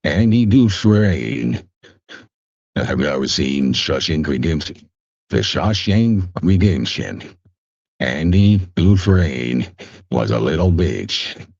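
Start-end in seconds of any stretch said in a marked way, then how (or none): 0.0-1.7 slow, drawn-out storyteller, pitched up at first; light imitation of a famous film narrator; Morgan Freeman. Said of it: "sound like Morgan Freeman". 5.3-11.5 lightly imitated film narrator; measured storyteller delivery with pauses; Morgan Freeman. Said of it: "sound like Morgan Freeman".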